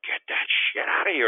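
high, loud trash-talk yell; retold rude taunt. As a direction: re-enact yelling at a blocked shooter. Retold taunt after block.

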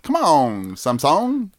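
high whiny begging; whiny pleading voice. Pretend.

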